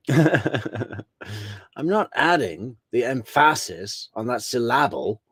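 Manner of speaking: "adding", "emphasis" and "syllable" each given a measured beat; George's poetic emphasis. Retold or imitated. Host repeating the lawyer's poetry techniques, emphatic recital of "adding the emphasis". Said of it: "George is using a little bit of poetry techniques".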